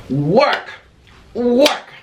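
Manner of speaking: mock yell. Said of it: "I went".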